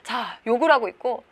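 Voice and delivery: normal talking voice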